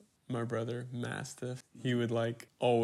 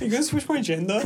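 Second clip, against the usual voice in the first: mimicking a kid's accent, pitched up; higher mocking echo, "gender" as "jenda"; imitated non-American accent; 8 semitones higher than usual. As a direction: tease them by copying the accent. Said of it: "You sound like that kid".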